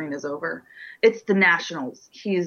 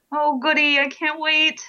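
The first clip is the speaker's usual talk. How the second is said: sarcastic; 5 semitones higher than usual. Acted. Mock enthusiasm for movie.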